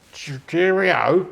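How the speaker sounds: slow, drawn-out "Cheerio"; lightly imitated drunken cheerio; copying Francis. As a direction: mimic the friend's tipsy toast, stretching it out slowly. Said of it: "No, I was copying you, Francis".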